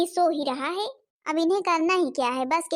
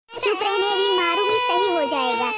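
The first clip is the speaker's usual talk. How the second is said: put-on raised-voice threat to a crying child; angry scolding; 3 semitones higher, 4 dB louder than usual. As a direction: snap at the child to hush. (गुस्से में डाँटते हुए)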